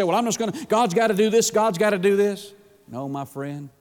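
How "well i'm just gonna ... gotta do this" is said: higher, insistent mock demand; presumptuous. Preacher mimics a believer testing God, presumptuously insistent. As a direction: imitate someone taking God for granted. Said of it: "going out presumptuously".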